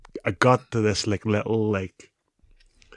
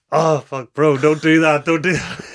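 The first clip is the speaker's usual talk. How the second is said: loud, high cries of pain; pleading with his mate through the pain; pained yelling; 6 semitones higher, 6 dB louder than usual. Retold or imitated. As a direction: beg him to stop, hurting. Pain as hip is lifted.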